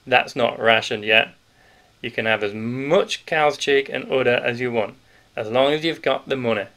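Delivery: put-on a big grocer letting the children in on a secret; hearty Yorkshire grocer. Grocer voiced through the scene.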